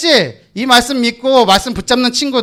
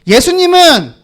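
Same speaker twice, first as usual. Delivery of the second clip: 예수님은 called out higher and louder; repeat louder; 6 semitones higher, 4 dB louder, slower than usual. Shown as a demonstration. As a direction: call 예수님은 out again, pushing it up. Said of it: "자, 다시".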